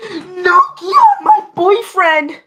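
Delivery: high wailing cry, slowed; overacted anime dub. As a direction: sob it out like a dubbed anime heroine. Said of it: "Rate my impression".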